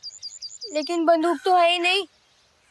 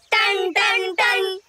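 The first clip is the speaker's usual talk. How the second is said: ringing, higher-pitched bell strokes; imitated bell; 4 semitones higher, much slower than usual. Child pointing out the first watch's bell, imitating its strokes. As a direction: chime it out like a striking gong. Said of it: "पहले पहर का घंटा बज रहा है".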